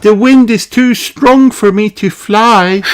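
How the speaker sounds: high, loud call over wind; loud high call for help. A narrator's reading. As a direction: call out across the water. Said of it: "calls Princess Holly".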